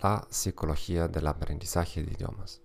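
Spanish spoken with a German accent; German-accented Spanish, careful and steady. Real, not acted. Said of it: "con acento alemán". (español con acento alemán)

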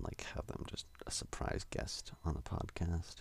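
whisper. Real, not acted. Host whispering a plan to the listeners, hushed. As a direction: whisper the idea as a secret.

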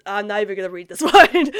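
chuckling while refusing to read the comment; laughing tease. Real, not acted. Vlogger laughing as she teases a viewer's comment. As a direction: laugh through the playful refusal.

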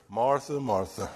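gently imitated fond reproach; gentle Jesus. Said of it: "I can just hear him say that".

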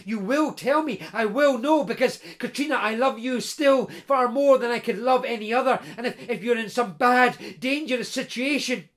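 lightly voiced eager man, amazed at her youth; Peter, astonished blacksmith. Blacksmith Peter marvelling to his lost bride Katrina, mild eager wonder.

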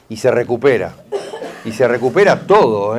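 says it through a light laugh; chuckling. Real, not acted. Healer laughing as he reassures grieving client.

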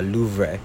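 "Louvre" with an extra syllable, "loov-ray"; mispronounced Louvre. Retold or imitated. Asking a guy the way to the Louvre, "Louvre" mispronounced as loov-ray. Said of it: "you don't say Louvre".

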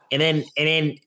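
stumbling over repeated words; imitating a halting stutter. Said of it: "he hasn't got a stutter".

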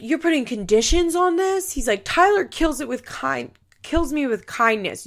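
high, mock-outraged squeal; indignant Butch. Butch protesting Amber's conditions, in a high mock-indignant voice. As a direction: play him as a whiny, offended man.

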